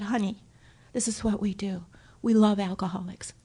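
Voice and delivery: tender sponsor reassurance; gentle. Retold or imitated. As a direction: hush it like comforting a friend.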